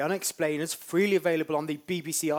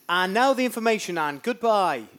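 presenter delivery; 4 semitones higher, 5 dB louder than usual. Acted. Delivers script as instructed.

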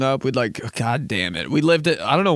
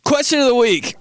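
announcer voice; 11 semitones higher, 5 dB louder than usual. Shown as a demonstration. Announcing podcast segment.

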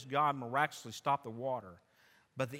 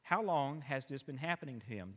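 calm sovereign voice. Acted. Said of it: "sovereign, calm voice".

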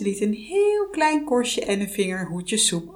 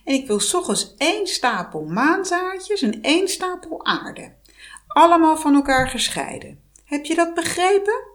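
higher, pushy witch voice; demanding witch; 9 semitones higher, 3 dB louder than usual. Acted. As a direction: press the impossible order on her. Heks geeft onmogelijke opdracht. (hoge, eisende heksenstem)

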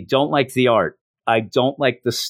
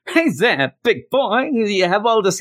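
high, breathy-free sultry come-on, pitched way up; Mae West; 10 semitones higher than usual. Pretend. Wishing the computer sounded like Mae West, high sultry come-on. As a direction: purr it like a vamp. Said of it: "I wish it was like Mae West".

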